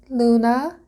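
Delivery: called out, high and loud; calling out. A narrator's reading. Crow calls Luna from the branch, high call. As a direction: call her name across the tree. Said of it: "it called instead".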